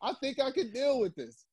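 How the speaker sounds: talking himself into it; smitten guy. Retold or imitated.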